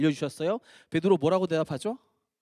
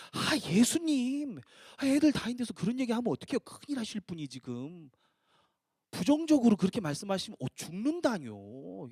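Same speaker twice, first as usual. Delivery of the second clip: acted rebuke; 3 semitones higher than usual. Peter taking Jesus aside to rebuke him, acted remonstrance. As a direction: chide with a long, exasperated plea. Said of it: "꾸짖기 시작하면서 예수님한테 이렇게 얘기하는".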